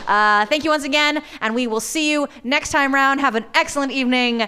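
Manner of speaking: upbeat announcer outro; host sign-off. Acted. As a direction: wrap up the show like a host.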